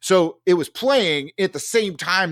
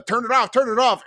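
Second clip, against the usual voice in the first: high mock panic; frantic plea; 10 semitones higher than usual. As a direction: beg them in panic. Others freaking out.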